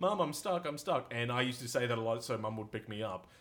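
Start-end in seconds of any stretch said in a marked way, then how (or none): 0.0-1.1 mock child's high-pitched calling-out yell. Retelling a childhood mishap, calling for mom when stuck: retelling a childhood yell. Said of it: "I started yelling".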